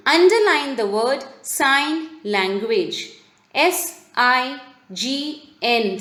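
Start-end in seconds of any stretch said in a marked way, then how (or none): 3.5-6.0 slow classroom spelling. Shown as a demonstration. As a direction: spell it slowly, letter by letter. Teacher spells the underlined word.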